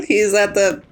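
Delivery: slow words breaking into a laugh. Acted. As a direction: tease him through giggles. Teasing the speechless man.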